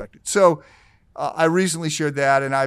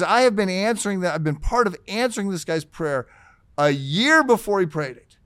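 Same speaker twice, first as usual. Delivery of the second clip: worked-up, emphatic retelling; agitated storytelling with punched key words; retold freak-out. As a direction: imitate someone astonished and freaking out. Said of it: "I'm freaking out".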